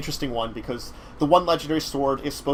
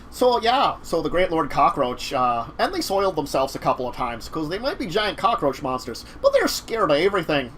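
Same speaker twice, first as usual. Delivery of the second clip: lightly put-on Minnesotan slipping into Scottish; wobbly mock Scottish lilt; accent drifting into Scottish; 2 semitones higher than usual. Game master describing scared cockroach monsters, drifting into Scottish accent. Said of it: "now you're going Scottish".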